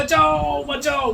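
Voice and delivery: high, loud cry of बचाओ; cry for help. Shown as a demonstration. Preacher demonstrating a drowning man's cry, loud call. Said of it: "चिल्ला के बोलना चाहिए".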